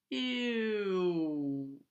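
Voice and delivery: long falling "ew"; drawn-out disgusted ew. A narrator's reading. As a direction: draw out a grossed-out sound, sliding down. Narrator reacts to burnt bones.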